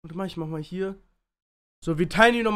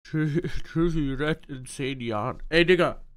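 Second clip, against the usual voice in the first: slurred numb-lip speech; numb from the dentist; 5 semitones lower than usual. Real, not acted. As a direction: talk with a numb, drooling lip. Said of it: "Lippe kann man vergessen".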